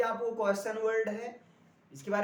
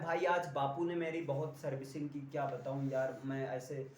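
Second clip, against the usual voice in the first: lightly voiced griping friend, lower and a bit softer; a hint of a sulky friend telling his woes; complaining friend; 7 semitones lower, 5 dB quieter than usual. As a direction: grumble like a pal whose father scolded him. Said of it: "कोई आपसे अपनी problem बता रहा है".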